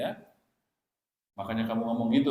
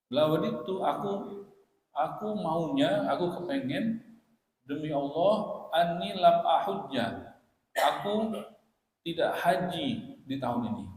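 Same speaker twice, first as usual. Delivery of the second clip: high, slow, anxious wish; mild tearful pleading, raised pitch; distressed answer; 5 semitones higher, 3 dB louder than usual. Retold or imitated. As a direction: say it as a frightened girl wishing she had stayed home.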